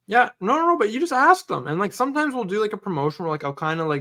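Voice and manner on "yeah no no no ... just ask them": emphatic insistence. Real, not acted.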